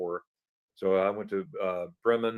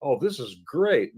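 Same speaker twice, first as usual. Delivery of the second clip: happy relief; 7 semitones higher, 3 dB louder than usual. Retold or imitated. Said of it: "I'm like".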